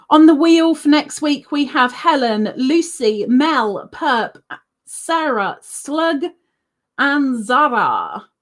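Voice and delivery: punchy list, last name drawn out; announcing names. Real, not acted. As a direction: call out each name like a host. Announces the names on next week's wheel.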